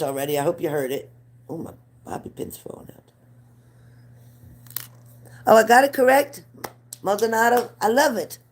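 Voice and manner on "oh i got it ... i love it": high, louder burst of delight; thrilled she got it right. Real, not acted. Pleased she said name right.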